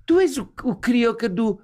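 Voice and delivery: put-on high Portuguese kid voice, laughter creeping in; imitated Portuguese lad. Portuguese boy asks the visiting comedian, high imitated voice. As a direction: mimic a young Portuguese fan, pitched high. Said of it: "Ele falou assim".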